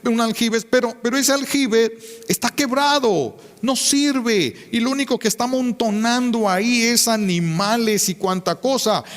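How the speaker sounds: full preaching force; voice of the Lord. Acted. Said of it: "pero dice el Señor".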